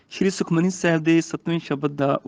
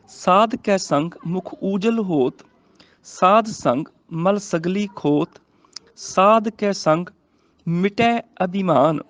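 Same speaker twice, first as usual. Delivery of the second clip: slow, measured verse reading; scripture recitation; much slower than usual. Shown as a demonstration. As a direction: recite slowly, phrase by phrase. (ਹੌਲੀ, ਠਹਿਰਾਅ ਨਾਲ ਗੁਰਬਾਣੀ ਪਾਠ)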